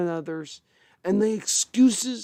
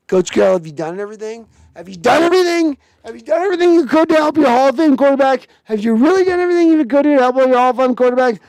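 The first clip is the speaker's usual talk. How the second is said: mock grilling; 3 semitones higher, 5 dB louder, much faster than usual. Fan grilling the coach over his quarterback, fast and loud. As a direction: press him harder each time. Interrogating coach in pretend scene.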